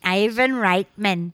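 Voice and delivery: slow, muddled attempt at an Austrian accent; Schwarzenegger. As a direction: stretch the name in a badly faked Austrian accent. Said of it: "trying to say it the way Schwarzenegger does it".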